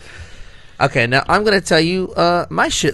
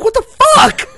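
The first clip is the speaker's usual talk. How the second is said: high, loud laughing yelp; laughing shriek of mock outrage; laughing disbelief; 7 dB louder, slower than usual. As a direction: squeal it through laughter.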